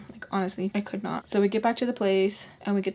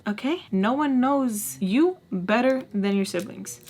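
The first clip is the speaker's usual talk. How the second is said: earnest mom advice. Retold or imitated. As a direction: tell the kids gently. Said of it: "I always tell my kids".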